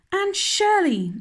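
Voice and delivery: mock-horrified outburst at the girl's name; exclaiming. A narrator's reading. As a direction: call her name out in alarm. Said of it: "she exclaimed".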